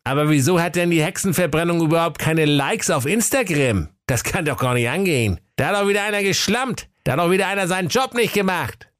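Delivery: high, fast indignant complaining; indignant Wilhelm. Acted. Wilhelm grumbles to Jakob about no likes, high and fast.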